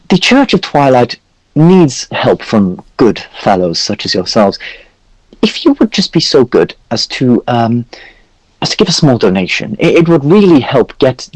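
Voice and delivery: put-on high, fussy old priest voice; jolly priest NPC. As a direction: play a pompous, chatty cleric. High priest asks for a donation.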